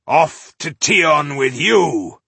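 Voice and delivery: loud, slow triumphant dwarf roar; battle cry. Acted. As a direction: finish the foe with a shout. Dwarf kills the giant.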